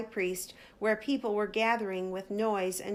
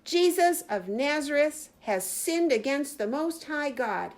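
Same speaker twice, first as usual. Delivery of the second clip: crying out; 6 semitones higher than usual. Acted. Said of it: "he cried".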